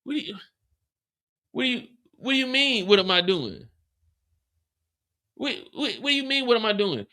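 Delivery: high, incredulous yell; mock shouting back at her. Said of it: "Shanti start yelling".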